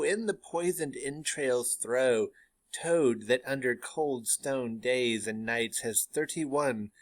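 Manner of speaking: slow, spell-casting witch reading; witch incantation. Acted. Teacher reads the first witch's spell, slow incantation. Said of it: "starts the incantation".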